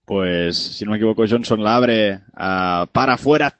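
quick radio basketball commentary; live play-by-play. Acted. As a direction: call the game live as it happens. (narración deportiva en directo)

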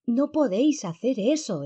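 high, loud protest; exclamación. A narrator's reading. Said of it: "exclamó". (exclamación aguda y fuerte)

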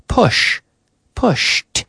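pushed ending in sht; T sound ending. Shown as a demonstration. Teacher drilling the past tense for learners, crisp final t. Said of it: "Also the S H".

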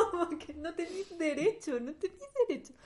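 high-pitched indignant protest. Real, not acted. Indignant at Charles.

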